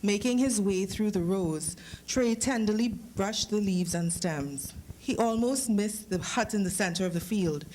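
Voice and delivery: steady, unhurried reading-aloud voice; story narration. A narrator's reading. Author reading his story to the audience, calm narration.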